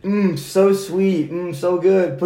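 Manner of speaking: slow, high, savoring every word; dreamy mmm like a commercial; blissful. Pretend. Mock ad for frozen fruit.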